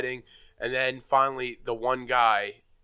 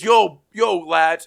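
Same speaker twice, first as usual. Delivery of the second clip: hearty greeting; 3 semitones higher, 6 dB louder, much slower than usual. Retold or imitated. Irish bar guy greeting the comedian and friends, loud and cheery. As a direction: call out a cheery welcome. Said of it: "And he goes".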